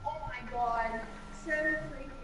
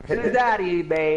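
louder, teasing call-out; repeating louder and sillier; 3 dB louder than usual. Shown as a demonstration. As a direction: belt it out playfully. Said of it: "Say it louder".

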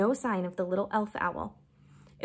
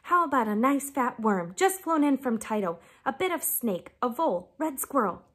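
clucking broody; 3 semitones higher than usual. Acted.

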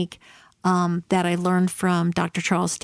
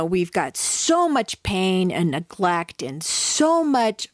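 retold anger at dad; 3 semitones higher, slower than usual. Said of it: "And I was pissed".

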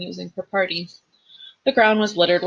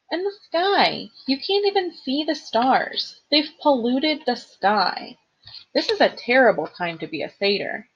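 a hint of a gentle satyr grieving the sky; lightly voiced sad satyr; 6 semitones higher than usual.

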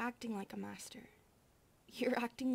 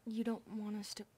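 hushed whisper; 3 dB quieter than usual. Acted. Maid scolding her sister and asking the master, whispered. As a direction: whisper a nudge, then a question.

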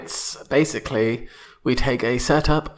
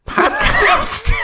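laughing American "podcast" pronounced pʰɑdkæst, high and loud; hammy American twang on "podcast"; American accent; 5 dB louder than usual. Shown as a demonstration. Mocking an American saying "podcast". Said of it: "Very American".

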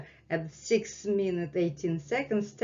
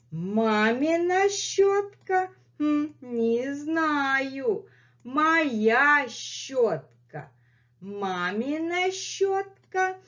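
high sing-song question, then a slow hmm answer; playful dialogue; 6 semitones higher, slower than usual. Pretend. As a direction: ask high, answer slowly and stubbornly. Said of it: "acted dialogue repeated".

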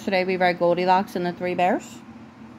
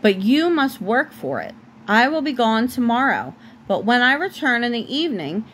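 lightly voiced witch setting terms; story narration; 3 semitones higher than usual. A narrator's reading. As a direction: read the witch's lines firmly to a child, only lightly acted.

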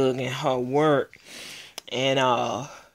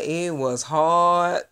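laughing; 4 semitones higher, 7 dB louder, slower than usual. Real, not acted. Laughing while confessing the secret.

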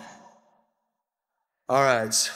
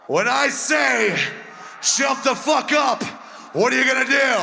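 hyped command. Real, not acted. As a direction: drag the order out over the crowd. Frontman firing up the crowd.

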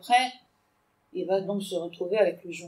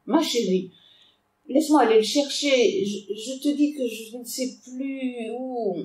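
higher, slowing, a touch of panic; pleading father; 4 semitones higher than usual. Acted. Minister in the bath pleads with his armed daughter, lightly frightened. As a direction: beg for time, voice rising.

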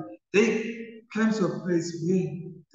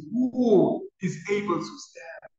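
slow, pleading cry, a little raised; 4 semitones higher, slower than usual. Retold or imitated. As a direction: ask it slowly, pleading. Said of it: "they cry out and says".

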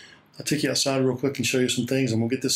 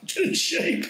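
laughing; slower than usual. Real, not acted. Laughing at himself.

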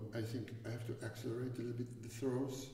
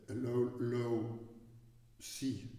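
slow stretched low; much slower than usual. Shown as a demonstration. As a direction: stretch out low, low like a calm sea. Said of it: "imagine, in the nature".

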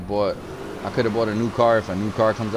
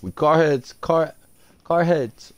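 higher, louder hype call; hyped; 7 semitones higher, 5 dB louder, slower than usual. Real, not acted. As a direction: pump it up like a chant. Repeats phrase hyped.

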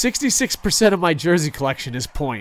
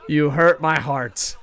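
mock hurt; 4 dB louder, slower than usual. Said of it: "why do you ruin my streams".

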